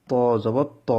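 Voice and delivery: "ত জবর ত" spelled out with a heavy, full-mouthed ত; Arabic letter demo. Shown as a demonstration. Teacher spelling "ত জবর ত" for students, heavy ত. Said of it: "যেমন".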